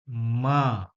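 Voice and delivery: माँ stretched so its final vowel sounds; drawn-out vowel. Shown as a demonstration. Teacher asking what sound ends माँ, drawn out. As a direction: hold the vowel at the end of माँ. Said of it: "last में क्या आ रहा है?".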